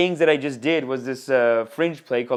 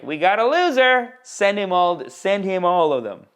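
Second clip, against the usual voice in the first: raised, louder mock alert; YouTube personified; 5 semitones higher, 4 dB louder than usual. YouTube spotting a pickup artist viewer, mock urgent alert. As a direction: call it out like a lightly voiced dispatcher. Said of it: "YouTube is like".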